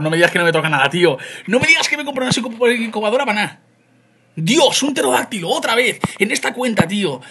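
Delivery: high, loud exasperated complaint; frustrated outcry. Real, not acted. Streamer groaning at another pterodactyl, high frustrated cry. Disappointed by the egg result.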